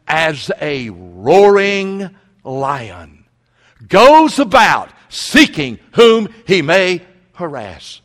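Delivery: slow, loud, menacing growl; roaring lion voice. Acted. Preacher voicing the devil as a prowling lion, menacing. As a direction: let the lion roar through it.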